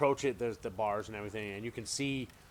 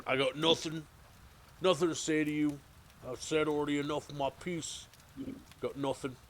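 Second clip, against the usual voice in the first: higher, louder gruff refusal; stubborn prisoner; 6 semitones higher, 4 dB louder than usual. Acted. Prisoner Fenris stonewalling the interrogator, gruff and defiant. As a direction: dig in and refuse to talk. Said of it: "he's like".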